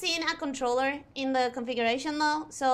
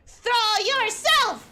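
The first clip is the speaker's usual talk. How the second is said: higher, slow emphatic order; insistent command; 5 semitones higher, 4 dB louder, much slower than usual. Real, not acted. Streamer urging game character off the cliff, insistent raised command. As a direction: order it slowly, driving up on the last word.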